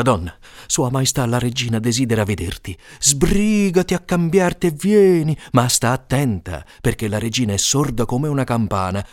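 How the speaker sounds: lightly voiced scheming husband; a hint of a trickster; sly courtier. Ferrazzano warning his wife to shout at the queen, lightly voiced.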